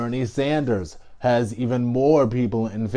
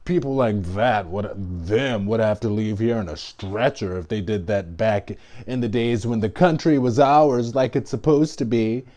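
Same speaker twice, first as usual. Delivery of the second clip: mimicking Trump. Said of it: "He's like".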